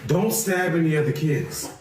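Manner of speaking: lightly voiced dad talking to his sons; a hint of a cheery father at breakfast; mock dad pep talk. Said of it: "I'm gonna go ahead and try something".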